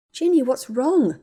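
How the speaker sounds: slow, careful, fearful question; slow dread. Acted. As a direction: ask slowly, dreading the answer. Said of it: "Hermione was growing cold with dread".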